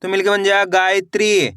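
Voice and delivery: level sing-song recitation, syllables drawn out; measured classroom chant with stretched endings; spelling drill. Shown as a demonstration. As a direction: sound it out for beginners, letter by letter.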